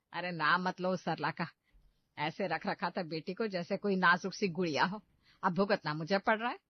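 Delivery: aggrieved complaint. Acted. Mother-in-law blames bride's mother.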